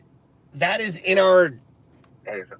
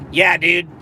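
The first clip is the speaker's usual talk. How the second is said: lightly mocked American dude accent; American bro catchphrase; Steve-O. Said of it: "as Steve-O America as you can get".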